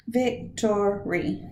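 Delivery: "Victory" slow, first syllable stressed, soft; stress on VIC. Shown as a demonstration. Teacher modeling the stressed first syllable of "Victory". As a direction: say "Victory" with the weight on VIC, slowly. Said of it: "It's victory".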